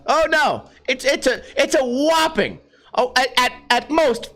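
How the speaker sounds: high-pitched mock alarm; hammed-up sarcastic awe. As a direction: feign being impressed by a tiny number. Sarcasm about small speed gain.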